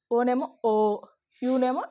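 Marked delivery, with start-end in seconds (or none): 0.6-1.0 "ఓ" held long; long vowel. Shown as a demonstration. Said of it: "దీర్ఘాలు తీస్తాం అనమాట". ("ఓ" దీర్ఘంగా)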